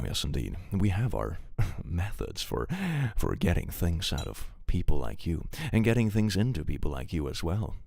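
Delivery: low, close-mic creepy interrogator; hammed-up ASMR seduction of a suspect. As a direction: purr it suggestively into the mic. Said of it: "we're not gonna A S M R this entire stream".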